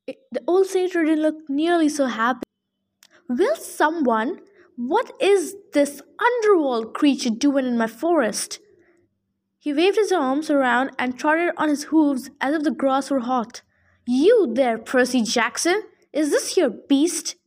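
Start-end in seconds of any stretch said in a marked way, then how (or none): 3.3-8.6 put-on fussy old satyr voice, indignant; grumpy old satyr. Old satyr scolding Percy about the hellhound, indignant. 14.1-17.3 put-on fussy old satyr voice, indignant; grumpy old satyr. Old satyr scolding Percy about the hellhound, indignant.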